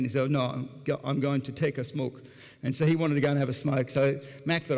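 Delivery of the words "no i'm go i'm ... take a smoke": lightly put-on Tunisian accent; a hint of a Tunisian accent in casual reply; imitated Tunisian accent. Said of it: "Haddam said in his, uh, accent".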